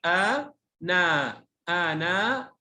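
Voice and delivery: أنا with both vowels drawn long; teacherly, stretched أنا; spelled out. Shown as a demonstration. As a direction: sound out أنا slowly for a pupil. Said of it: "تهجأ".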